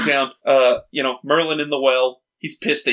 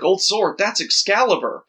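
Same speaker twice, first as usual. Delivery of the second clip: imitating astonished disbelief, higher voice; mock incredulity; 5 semitones higher than usual. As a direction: act out the boy's disbelief. Retells boy's amazement at the sword.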